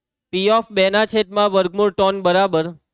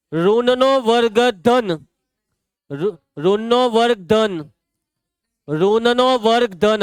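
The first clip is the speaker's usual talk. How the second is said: slow, drawn-out classroom rule; drilling a rule; slower than usual. Real, not acted. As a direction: stretch each word so the rule sticks. Teacher drills a rule by repetition.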